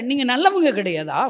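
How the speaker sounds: usual speaking voice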